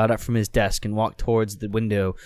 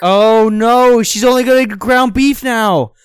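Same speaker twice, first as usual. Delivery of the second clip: raised, hammed-up dismay; high mock panic; 10 semitones higher, 7 dB louder than usual. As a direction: squeal the bad news. Mock alarm, pitch raised.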